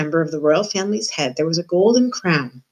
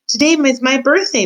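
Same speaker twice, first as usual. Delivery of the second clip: put-on higher, eager child's call; raised voice, high and hopeful; 7 semitones higher, 4 dB louder than usual. A narrator's reading. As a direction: call it out to someone passing. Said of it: "Meg called out".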